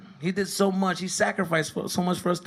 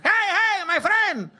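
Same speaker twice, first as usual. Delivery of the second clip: challenging dad; 5 semitones higher than usual. Retold or imitated.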